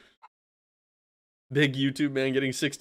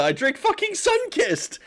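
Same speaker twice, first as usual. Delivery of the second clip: squeaky exclamation. Real, not acted. Exclaiming about his soda.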